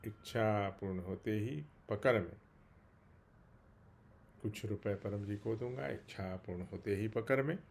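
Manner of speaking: subdued, humble petition with pauses; spoken prayer. Real, not acted. Devotee asking his master for health through winter, humble prayer. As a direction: pray aloud in short, measured phrases.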